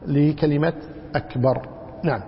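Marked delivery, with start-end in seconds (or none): 1.1-1.7 أكبر alone with a crisp glottal onset; realised hamza. Shown as a demonstration. Teacher isolates the word for students, hamza sounded. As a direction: start أكبر on a clear hamza. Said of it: "حقق الهمزة".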